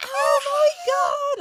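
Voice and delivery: high, loud yell. Recalling their own reaction on the phone to hearing wonderful news, in a retold excited scream. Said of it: "I remember like screaming on the phone".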